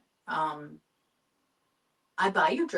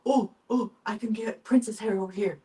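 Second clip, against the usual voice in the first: distracted excitement; 4 semitones higher, 6 dB louder than usual. Imagining getting distracted on a trip, playfully excited. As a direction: pretend excited, louder and higher. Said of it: "I would get distracted".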